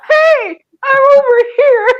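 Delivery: lightly imitated British accent; a playful hint of a British dog voice. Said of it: "with a British accent going".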